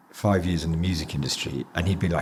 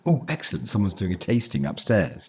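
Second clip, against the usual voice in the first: raised, eager foodie voice with yum yums; gleeful mock relish over free pies; mock excited; 5 semitones higher, slower than usual. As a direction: ham up delight at free pork pies. Acting out excited greed at tasting.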